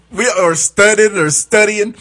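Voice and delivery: "studying" said slow, once as "studdin", once with full "ing"; slang pronunciation. Shown as a demonstration. Explaining the slang word to cohosts, slowly. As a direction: contrast "studying" clipped, then careful. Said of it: "The word is actually study".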